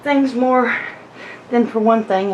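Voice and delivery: slightly winded, breathy between phrases; out of breath. Real, not acted. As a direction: talk while catching your breath. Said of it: "I know I'm out of breath".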